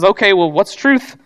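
a dry, mildly sarcastic question; cynical, sarcastic. Retold or imitated. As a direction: toss the question off with a touch of cynicism. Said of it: "Kind of cynically, sarcastically".

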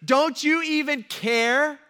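loud, high panicked plea; freaking out. Retold or imitated. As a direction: imitate frantic men begging to be saved. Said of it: "the disciples are freaking out".

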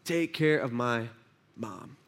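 weak tender plea. Acted. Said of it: "he pulls himself up with what little strength".

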